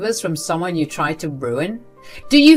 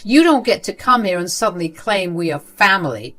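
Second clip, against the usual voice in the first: firm angry cutoff. Acted. Sarah cutting off her grandmother's fake praise angrily. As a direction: stop her dead.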